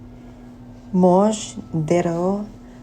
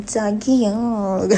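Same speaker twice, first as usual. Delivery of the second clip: K-drama sweet call; 4 semitones higher, much slower than usual. Pretend. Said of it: "Para naman sa K-drama".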